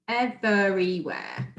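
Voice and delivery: slow "Everywhere", ev-ery-where in three beats; syllable by syllable. Shown as a demonstration. Teacher revealing the answer, "Everywhere" slowly broken in three. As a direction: sound out each chunk of "Everywhere". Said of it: "pronouncing the words clearly".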